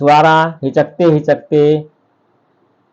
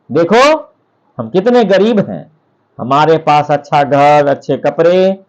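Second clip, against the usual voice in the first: a touch of a nagging wife's anger; angry wife. Acted. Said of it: "बहुत नाराज हुई". (हल्की नाराज़गी से डाँटती पत्नी)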